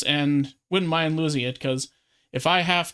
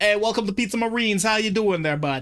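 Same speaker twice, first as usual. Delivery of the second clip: strong put-on New York accent; 5 semitones higher than usual. Retelling how the owner in the radio ads greets customers, thick New York accent. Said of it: "has a thick New York accent".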